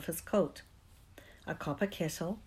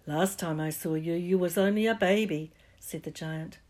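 warm giant. Acted. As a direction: ease into a gentle hush. Giant talks to Harry gently.

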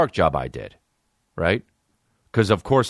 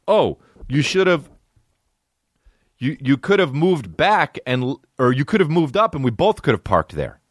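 mocking the driver; 6 semitones higher than usual. Comic mimics the driver who blamed his parking, high and whiny. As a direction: drag it out like a smug know-it-all. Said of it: "I realized that".

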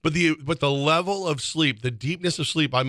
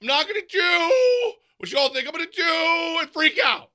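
high, shrieking, half-crying mock panic; cry-shouting in pretend distress; mock freak-out. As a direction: blow up into a hammed-up panicked wail. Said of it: "Yes, I am".

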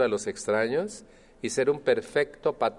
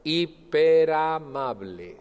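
drawn-out, sugary and higher; overly sweet; 5 semitones higher, 3 dB louder, much slower than usual. Shown as a demonstration. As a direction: lay the politeness on thick. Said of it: "soy hiperamable". (exageradamente amable y empalagoso)

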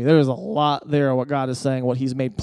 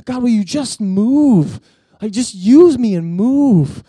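slow, higher, pleading cry to God; frustrated prayer; 6 semitones higher, 5 dB louder, slower than usual. Retold or imitated. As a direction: beg God to act, worn out. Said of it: "as I'm frustrated with the Lord".

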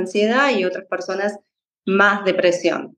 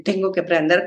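demanding inner voice; 2 semitones lower, faster than usual. Retold or imitated. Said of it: "otra vez esa voz exigente".

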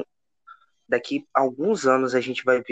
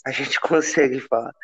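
laughing. Real, not acted. Laughs while echoing co-host.

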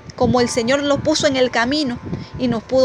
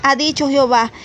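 scripture reading. Acted. Preacher reads Isaiah aloud to the women, declaiming. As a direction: proclaim the verses to the congregation.

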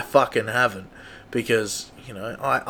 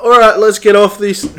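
mock exclaim; 6 semitones higher, 6 dB louder than usual. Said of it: "I was like".

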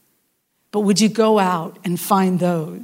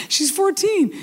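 laughing repeat; 9 semitones higher, slower than usual. Shown as a demonstration. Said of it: "repeated with a laugh".

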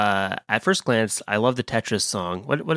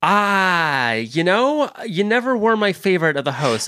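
lightly voiced bad celebrity impression; a hint of a breezy star, starting higher; Jack Black; 3 semitones higher than usual. Celebrity guest slighting the podcast host, lightly impersonated. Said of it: "was that Jack Black in the hallway".

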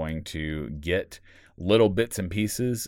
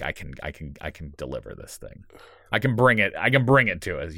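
building self-pep talk. Retold or imitated. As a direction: mutter it to yourself, then lift it into a rallying cry. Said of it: "that little motivation to be like".

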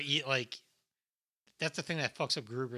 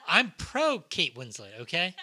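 laughing; 5 semitones higher, 8 dB louder, slower than usual. Real, not acted. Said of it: "laughing defence".

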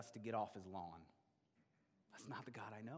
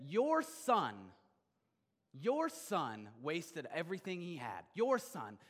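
resentful brother; 3 semitones higher, 5 dB louder, slower than usual. Acted. Resentful older brother accusing father.

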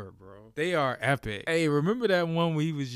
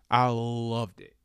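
slower, savoring each word; relishing it; slower than usual. Real, not acted. Fan gloating over the blowout, drawn out. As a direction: let the joy stretch out.

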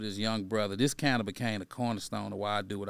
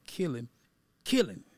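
raised voice; 3 semitones higher than usual. Retold or imitated. Ex-gang imam to fifteen inmates, raised voice. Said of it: "And then I raised my voice again".

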